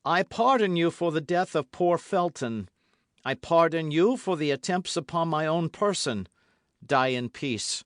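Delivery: forceful pardon. A narrator's reading. De Winter pardons, louder.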